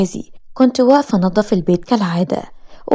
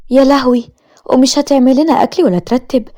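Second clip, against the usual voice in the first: alarmed cry; 4 semitones higher than usual. Acted. Sister alarmed at the news.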